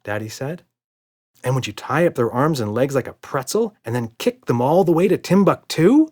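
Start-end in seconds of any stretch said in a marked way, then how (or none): 1.4-6.1 put-on little girl voice. A narrator's reading. Emma voiced, eager child.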